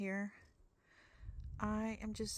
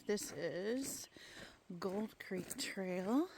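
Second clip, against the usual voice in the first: whisper; much slower than usual. Real, not acted. Names the trail, hushed, on camera.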